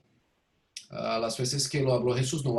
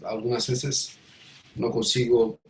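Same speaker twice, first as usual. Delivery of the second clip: American accent Spanish. Real, not acted. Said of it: "disculpa mi español".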